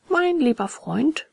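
calm a friend down, taking your time; soothing. A narrator's reading. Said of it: "beruhigte ihn das Murmeltierchen". (beruhigend, langsam gedehnt)

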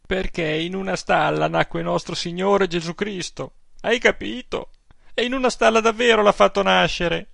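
an aggrieved pious aunt pouring out her complaints; indignant old aunt. Acted. Old aunt telling her nephew about the priest, scandalized.

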